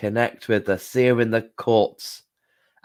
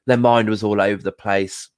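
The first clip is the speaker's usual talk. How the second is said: forgiving; 3 semitones lower than usual. Retold or imitated. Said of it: "justify and go".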